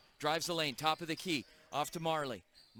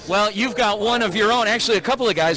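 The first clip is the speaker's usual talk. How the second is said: loud, projected broadcast voice over the gym; big TV host voice pitched to carry; sideline reporter; 14 dB louder, faster than usual. Acted.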